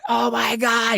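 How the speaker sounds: very high, exasperated mock cry; mock screaming. Outraged investigator at the bank, mock screaming. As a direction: imitate a man hollering in outrage. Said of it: "he's screaming, hollering".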